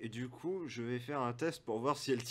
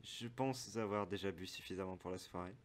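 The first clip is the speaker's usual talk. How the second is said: NPC voice; 6 semitones lower, 12 dB quieter than usual. Acted.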